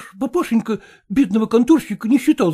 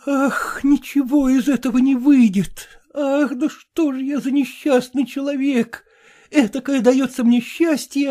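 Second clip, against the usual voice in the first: weeping; 12 semitones higher than usual. Acted. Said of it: "плакал и говорил".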